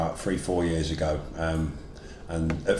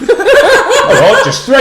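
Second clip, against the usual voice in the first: laughing; 13 dB louder, much slower than usual. Real, not acted. Laughing at being told to list.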